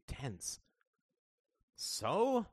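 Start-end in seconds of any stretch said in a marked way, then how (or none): 1.7-2.5 high, eye-rolling retort; dismissive. A narrator's reading. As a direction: brush off the complaint. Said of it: "said Greta, rolling her eyes".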